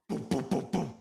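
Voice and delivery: a run of punched booms; spoken boom effect. Pretend. Player acting out the walk-in, spoken boom effect. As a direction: boom out short repeated beats. Player mimes a repeated action.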